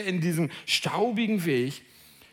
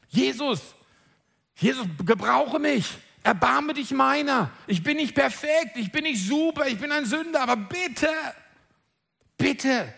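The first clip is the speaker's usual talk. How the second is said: pleading cry rising higher; 4 semitones higher than usual. Pretend. Preacher imagines crying out to Jesus, pleading. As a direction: beg Jesus, climbing in pitch. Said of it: "dass ich schreie".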